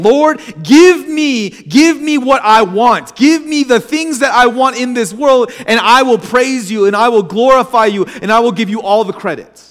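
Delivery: a friend acting out a forceful prayer; bold demanding prayer. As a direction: demand it from God plainly.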